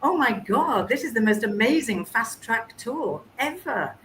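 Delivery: high, bright-eyed disbelief; excited inner voice. Retold or imitated. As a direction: raise the pitch in amazement at the misunderstanding. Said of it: "And I thought".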